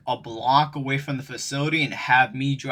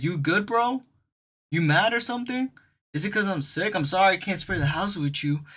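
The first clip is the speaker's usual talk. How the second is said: higher, pleading innocent act; 3 semitones higher than usual. Retold or imitated. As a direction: play the wide-eyed innocent, rising as you plead. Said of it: "doing the most innocent voice".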